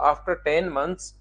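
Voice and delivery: reads the English phrase slowly, word by word; slow, deliberate reading of the question's wording; slow careful reading. Shown as a demonstration. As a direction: point out each word as you read. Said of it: "ये लिखा हुआ".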